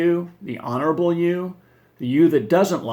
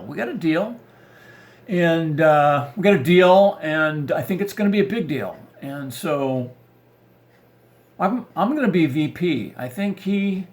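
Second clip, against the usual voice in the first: bragging husband; 2 semitones higher than usual. Retold or imitated.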